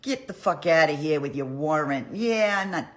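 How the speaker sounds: loud angry king throwing out the plotters; angry dismissal. Retold or imitated. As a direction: shout them out of the room. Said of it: "Henry's like".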